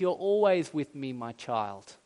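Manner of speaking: understated loving plea; pleading father. Acted. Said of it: "he just pleads".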